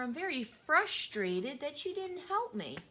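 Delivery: put-on a high, childlike "I'm feeling very angry"; modeling child speech. Teacher modeling what to tell friends, in a high childlike voice. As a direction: model the words a child would say.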